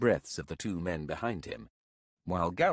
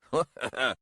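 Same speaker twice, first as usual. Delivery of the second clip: short raised mocking chuckle; mocking laugh; 6 semitones higher, 3 dB louder than usual. A narrator's reading. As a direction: laugh at the young upstart. Elder mocks the pup.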